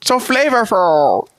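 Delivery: Chinese grandpa voice. Retold or imitated. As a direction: stretch out "So flavorful" like a grandpa. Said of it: "Why did you say it like a Chinese grandpa".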